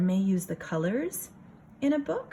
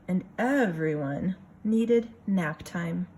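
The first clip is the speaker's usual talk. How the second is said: lively picture-book reading voice; story narration; slower than usual. A narrator's reading. Teacher reading a picture book to her class, storytelling voice. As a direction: read it for a room of kids.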